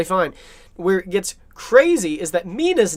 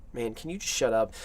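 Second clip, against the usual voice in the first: lower, softer weary aside; mock exasperation; 6 semitones lower, 9 dB quieter than usual. Doctors looking at the meddling comic relief, mock exasperated. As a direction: imitate two men fed up with him, under the breath. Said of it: "looking at him like".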